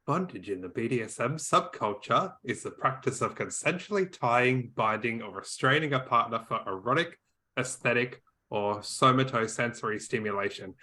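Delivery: flat monotone reading. Pretend. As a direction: read it like a robotic monotone. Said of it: "put on my best monotone voice".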